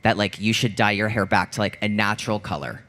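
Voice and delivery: low, soft, gently preachy advice; a hint of a condescending official; lightly voiced monitor. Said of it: "they were like".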